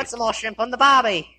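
stereotypical Aussie delivery; lightly hammed Australian accent; funny Australian accent. Shown as a demonstration. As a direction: say it as a stock Australian. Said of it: "Do your funny one".

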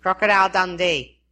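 put-on brief Australian-accented catchphrase; understated Australian delivery. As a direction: say it like an Aussie. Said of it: "phrases that people want said with an Australian accent".

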